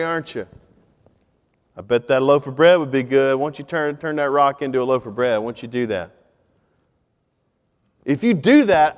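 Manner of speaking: lightly voiced sly tempter; tempting devil. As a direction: sweet-talk him like the devil offering bread. Satan tempting Jesus, voiced.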